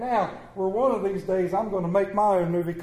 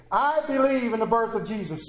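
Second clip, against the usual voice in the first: raised, measured declaration; leading a congregational response; 4 semitones higher than usual. Shown as a demonstration. Preacher asking the congregation to say it with him, declaring. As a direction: proclaim it so they can join in. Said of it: "Say it with me".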